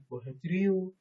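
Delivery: lightly imitated Gangwon regional lilt; Gangwon dialect. Shown as a demonstration. Teacher showing students an often-imitated regional phrase, Gangwon dialect. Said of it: "강원도에서는".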